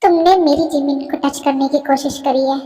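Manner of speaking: loud, low enraged roar; furious threat. Acted. A rapper confronts the man who touched a fellow singer, furious roar. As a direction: tear into the attacker with rage.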